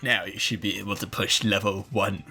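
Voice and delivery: Palpatine voice. Acted. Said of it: "she's supposed to be Palpatine".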